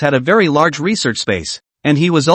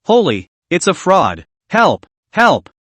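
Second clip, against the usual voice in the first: panicked cry for help, rising; terrified scream; 3 semitones higher, slower than usual. Acted. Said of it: "he screamed in terror".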